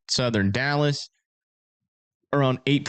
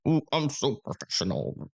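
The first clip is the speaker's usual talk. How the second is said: mock uptight; 2 semitones higher, 5 dB quieter than usual. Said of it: "super uptight".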